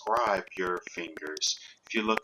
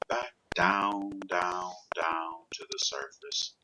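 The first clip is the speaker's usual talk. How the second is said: hypnotic induction. Real, not acted. Hypnotist guiding client gently back down to the surface, soothing trance voice. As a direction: ease them down gradually, lingering between phrases.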